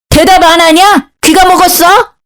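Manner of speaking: mother-in-law voice pitched well up, mock shouting; shrill mother-in-law yell. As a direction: scold the daughter-in-law from above. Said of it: "시엄마는 소리를 지르더라고요". ("대답 안 하냐?" 높은 목소리로 호통치는 시어머니)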